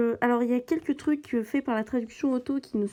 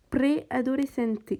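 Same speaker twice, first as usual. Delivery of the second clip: slow attempt at a Portuguese accent; slower than usual. Shown as a demonstration. Gamer showing viewers her accent in Portuguese, slow Portuguese accent. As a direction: sound out the Portuguese word slowly in an accent. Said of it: "Vous avez vu mon accent".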